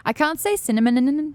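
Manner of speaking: "cinnamon" slowly, with extra "nuh-nuh" syllables tacked on; can't stop the "n"s in "cinnamon"; stumbling over cinnamon. Retold or imitated. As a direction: imitate a caller tripping on the end of "cinnamon". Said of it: "Someone's like, um".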